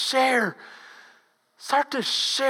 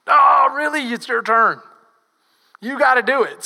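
mock indignant; 6 dB louder than usual. Disciples pushing the chore onto another.

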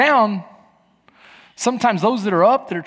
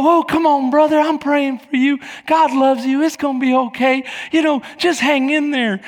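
mock cheery platitudes; 5 semitones higher than usual. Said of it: "they come around and go".

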